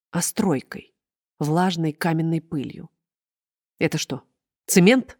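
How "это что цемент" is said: строгий, требовательный вопрос; спросить строго, как начальница. Acted. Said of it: "спросила она строго". (чиновница строго допрашивает стоматолога, строгим голосом)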